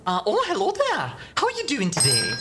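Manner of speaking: a Scottish accent that drifts into Irish, greeting; rusty Scottish-Irish accent greeting; attempted Scottish accent. Shown as a demonstration. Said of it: "that's more Irish".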